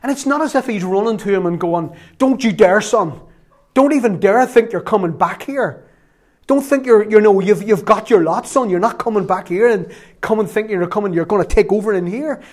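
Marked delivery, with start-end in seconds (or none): 2.2-12.4 loud, stern warning to a son; stern father. Pretend. Father warning prodigal son, loud and stern. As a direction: scold him off the doorstep.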